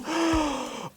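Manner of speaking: high, soft intake of breath; delighted gasp. Real, not acted. YouTuber feeling the leather-bound book, gasping with delight. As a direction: gasp in wonder.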